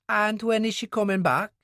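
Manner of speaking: the worried wife asks after Jenny; Mary, worried wife. Acted. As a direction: voice a worried mother figure asking. Voices Mary.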